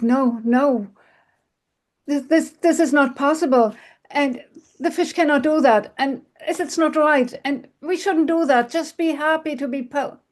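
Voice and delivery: the frightened husband begging his wife to stop; frightened pleading. Acted. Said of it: "was deeply frightened".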